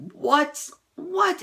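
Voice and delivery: incredulous what. Real, not acted. Vlogger can't believe the nitpickers, sharp rising what. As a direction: squeak it out in disbelief.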